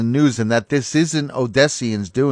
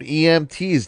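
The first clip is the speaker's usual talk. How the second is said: sarcastic scare quotes; 4 semitones higher, 4 dB quieter than usual. Real, not acted. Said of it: "look at these, quote".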